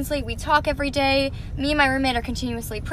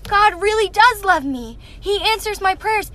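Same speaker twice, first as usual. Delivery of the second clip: imitating tearful roommate; 6 semitones higher, 3 dB louder, slower than usual. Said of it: "she starts to cry".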